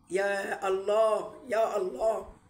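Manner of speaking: long drawn-out "يا الله"; slow exasperated يا الله. Real, not acted. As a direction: stretch it out in disbelief. Drawn out exasperated sigh phrase.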